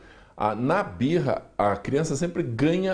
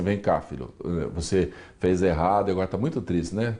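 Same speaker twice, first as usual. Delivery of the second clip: gentle comforting parent; 5 semitones lower than usual. Retold or imitated. Psychologist showing the right way to comfort a crying child, tender and low. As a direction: soothe the sad child calmly. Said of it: "Não, a gente diz assim".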